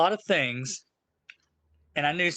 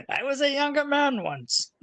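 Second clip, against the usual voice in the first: laughing; 10 semitones higher than usual. Real, not acted. Laughs about getting old.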